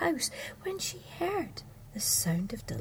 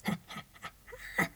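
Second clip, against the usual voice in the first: toad cackle; 4 dB quieter, much faster than usual. Acted. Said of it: "said old Missus Toad".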